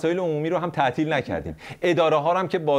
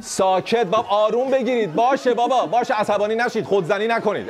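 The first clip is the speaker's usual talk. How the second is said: hushing the crowd; 3 semitones higher than usual. Pretend. Hushing imagined crowd again.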